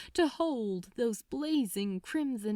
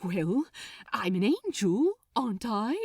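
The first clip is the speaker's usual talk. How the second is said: growing excitement. Acted. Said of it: "excitement growing within him".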